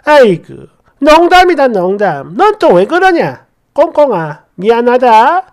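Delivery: 농담이라며 능청스레 넘기는 연기; 가볍게 흉내 낸 어물쩍 사과; 웃어넘기는 시아버지. Acted. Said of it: "또 껄껄껄 웃으면서". (웃어넘기려는 능청스러운 말투)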